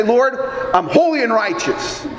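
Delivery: self-righteous boast. Pretend. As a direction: parade your good works before the throne. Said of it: "we all want to stand back and say".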